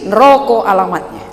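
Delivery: "neroko" with a clipped first vowel, nroko; Batak pronunciation. Shown as a demonstration.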